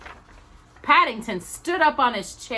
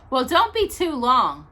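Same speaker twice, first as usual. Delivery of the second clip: called out; 6 semitones higher, 4 dB louder than usual. A narrator's reading. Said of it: "she called".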